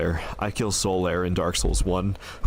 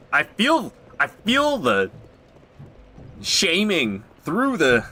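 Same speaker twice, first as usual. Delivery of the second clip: mock embarrassed; 8 semitones higher, 3 dB louder than usual. Mock shame at viewers.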